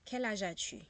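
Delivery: Quel âge as-tu said at full level, falling on Quel; model French question. Shown as a demonstration. Teacher shows how French speakers ask Quel âge as-tu, clear and full. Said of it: "they will ask you".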